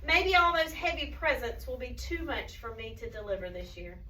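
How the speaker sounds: lightly acted tiredness, slowing on the walking; weary storybook Santa. A narrator's reading. Santa explaining his long walk, mildly weary storytelling. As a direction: tell it to children, winding down. Reads Santa's words to children.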